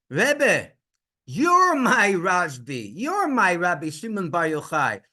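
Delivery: loud, high, drawn-out imploring; tearful plea. Retold or imitated. Father crying to the Rebbe, emphatic plea. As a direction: implore him with weight on every word, no real sobs. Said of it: "started to cry even more".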